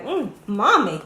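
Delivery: a hint of an excited child praising mommy's cooking; delighted eater. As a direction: ham it up as a thrilled kid begging for the recipe. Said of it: "Make 'em say".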